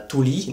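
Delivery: "tuli" with a short u and a single short l. Shown as a demonstration. Teacher showing French learners a Finnish word, short "tuli". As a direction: say "tuli" with both sounds kept short. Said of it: "donc avec un U et un L".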